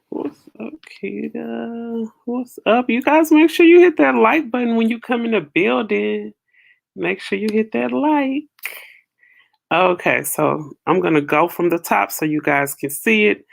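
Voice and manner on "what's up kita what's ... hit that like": higher, upbeat shout-out to viewers; hype vlogger greeting. Real, not acted. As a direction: pump up the audience at the start. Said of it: "vlogger greeting intro".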